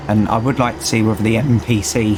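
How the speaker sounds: strained tired voice; losing voice. Real, not acted. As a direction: voice going hoarse. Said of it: "sorry, I'm losing my voice".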